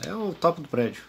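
ordinary talk

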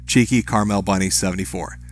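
low, soft, sultry birthday wish; sexy voice. Pretend. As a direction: purr the name like a seductive DJ. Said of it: "say happy birthday in your sexy voice".

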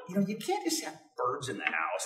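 softly spoken retold calm objection; staying calm. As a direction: keep it quiet and reasonable, imitating patience. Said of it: "I'm remaining calm".

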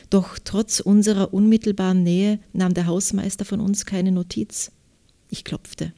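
measured literary reading with clear articulation; story narration. A narrator's reading. Author reads her novel excerpt to interviewer, literary narration. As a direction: read the novel excerpt aloud, phrase by phrase.

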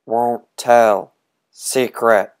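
cackling witch disguise; disguised witch voice. Acted. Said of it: "cried the witch, disguising his voice".

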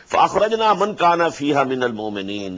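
rapid Quranic recitation; quick recitation. Acted. Teacher reciting the verse quickly before explaining. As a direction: rattle off the verse briskly.

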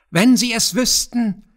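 high, loud shrieking goblin; screaming kobold. A narrator's reading. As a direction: shriek it out like a spiteful imp. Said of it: "schrie er". (kreischender Kobold, hoch und laut)

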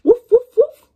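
loud high barking woofs; dog barking. Acted. Dog answering the daughter's call, loud high barks. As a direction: bark like an excited little dog.

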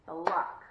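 BLOCK high, loud and stretched into one beat; high, emphatic single-beat Block; counted out. Shown as a demonstration. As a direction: draw out the start of Block, b-lock. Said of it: "let's count that one out".

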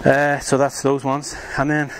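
winded after the exertion; out of breath. Real, not acted. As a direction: talk through heavy breathing. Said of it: "I'm out of breath now".

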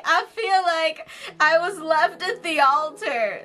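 half laughing, half sobbing; laugh-crying. Real, not acted. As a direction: cry through a laugh. Despair over failed pulls.

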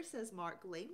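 normal talking voice

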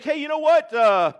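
a hint of a puzzled Nicodemus; Nicodemus thinking. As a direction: voice a baffled Nicodemus pushing back. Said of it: "to think".

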